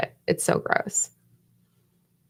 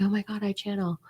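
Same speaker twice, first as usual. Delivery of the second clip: mock show-off; 2 semitones higher, 7 dB quieter than usual. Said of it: "They're like".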